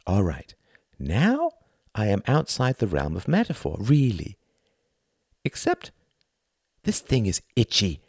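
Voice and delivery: high, showy stage-host voice; theatrical thin man. Acted. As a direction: play the pompous thin performer lecturing the audience. Thin man addresses audience.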